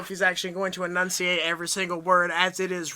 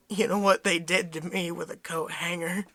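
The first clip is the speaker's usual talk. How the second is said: mildly mournful retold confession; a touch of sad gravity, pitched slightly down; imitated solemn sadness; 3 semitones lower, 4 dB quieter than usual. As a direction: quote him solemnly, understated. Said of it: "He got real solemn".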